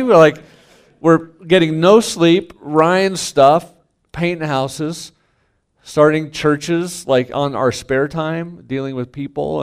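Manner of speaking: worn-out pastor venting about the brutal years; exasperated. Retold or imitated. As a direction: pour out the exhaustion, pitched high and loud. Exasperated rant about brutal life.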